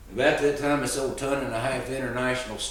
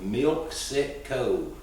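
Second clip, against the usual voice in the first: slow, spelled-out name; much slower than usual. Shown as a demonstration. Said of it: "it's called the Milk Sick Cove".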